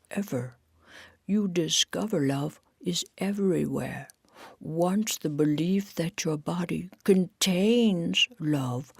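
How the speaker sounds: slow, spaced-out spiritual musing; lightly voiced dreamy guru, pausing between phrases; serene Marcy. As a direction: let each phrase drift out unhurried. Story figure Marcy speaks serenely.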